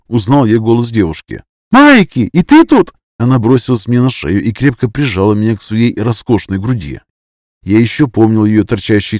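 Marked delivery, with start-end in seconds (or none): 1.7-2.9 much higher, louder squeal of joy; delighted girl. A narrator's reading. Vasiliska greets Mike with a high delighted squeal. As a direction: throw yourself at him happily.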